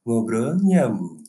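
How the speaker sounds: slow, drawn-out radio host voice; late-night radio host. Shown as a demonstration. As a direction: say the name like a midnight DJ. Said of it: "penyiar radio tengah malam".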